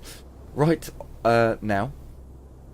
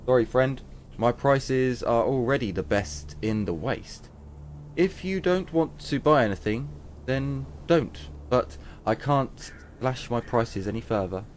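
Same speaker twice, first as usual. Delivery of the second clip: firm shopkeeper voice. Acted. Trader refuses discount.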